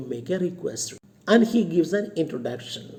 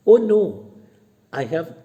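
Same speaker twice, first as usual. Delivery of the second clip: mock protest; 6 dB louder than usual. Lomov denies going to a party, a quick protest. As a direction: brush off the suggestion, a touch louder.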